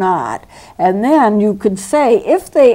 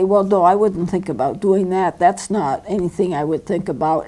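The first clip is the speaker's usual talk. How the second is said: matter of fact; 3 semitones lower than usual. Shown as a demonstration. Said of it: "it's just a very matter of fact".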